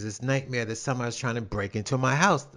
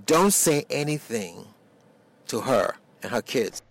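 very calm; 2 semitones lower than usual. Retold or imitated. Man to the driver about his girlfriend, retold very calmly. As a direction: imitate him saying it calmly, pitch dropping away. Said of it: "very calmly".

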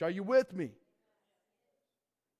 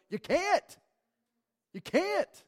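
high ringing preacher's cry, louder; emphatic shout; 11 semitones higher, 7 dB louder, much slower than usual. Real, not acted. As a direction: call it out to the whole church. Preacher rebuts excuses.

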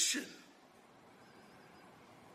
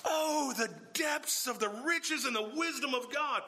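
1 awed exclamation; 5 semitones higher than usual. Shown as a demonstration. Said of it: "an emotional assertion of Paul's awe".

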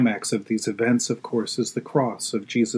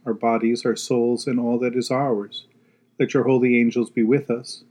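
prayer. Acted. Leads the prayers.

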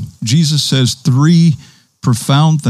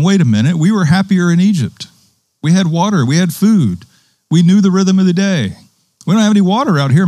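grumbling Israelites; 4 semitones higher than usual. Retold or imitated. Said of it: "the people of Israel are saying".

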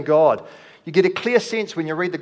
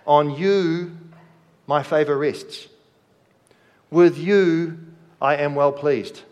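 proclaiming God's love. Acted. Voicing God's affirmation.

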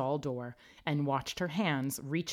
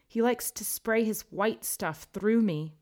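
mournful, a little lost; sad Myrtle; 6 semitones higher, 4 dB louder than usual. A narrator's reading. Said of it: "Myrtle replied sadly".

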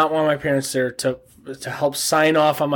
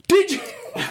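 high hype call; yelling. Acted. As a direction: shout it to the DJ. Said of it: "He didn't say it loud enough".

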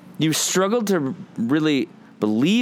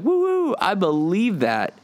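high whooping cheer, much higher; mock cheering; 8 semitones higher than usual. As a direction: whoop like an excited fan. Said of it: "those of you who are like".

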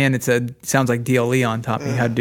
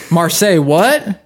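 mock French; 4 semitones higher, 3 dB louder, slower than usual.

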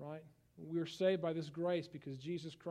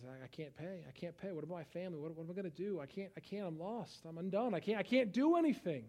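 desperate plea. Retold or imitated. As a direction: play the ruined debtor begging the judge. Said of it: "The man starts crying and says".

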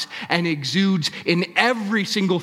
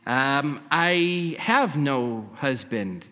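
mild halting stammer, slow; much slower than usual. Acted. Woman nervously denying to Jesus, mild stammer. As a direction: hesitate nervously through it. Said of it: "she stammered".

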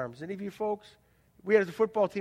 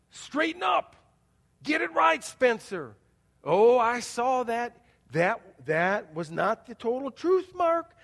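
put-on scolding old ways voice; 3 semitones higher, 4 dB louder, slower than usual. Preacher voices the old ways scolding the congregation, mock stern scold. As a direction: scold like a strict voice of old rules. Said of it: "we hear the old ways voice shouting".

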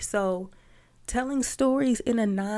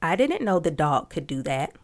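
didn't punched hard and louder; stress on didn't; 4 dB louder than usual. Shown as a demonstration. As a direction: hit the word didn't, the rest even. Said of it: "So if the sentence is".

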